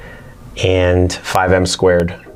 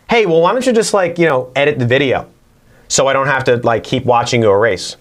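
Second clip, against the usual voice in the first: imitating a viewer; 4 semitones higher than usual. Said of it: "are saying to yourself".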